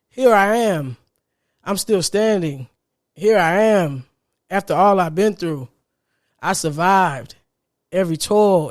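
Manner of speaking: measured, emphatic quoted affirmations; declaimed line by line, with pauses; powerful recitation. Retold or imitated. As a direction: recite each short phrase with steady conviction. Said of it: "you can feel the power in that".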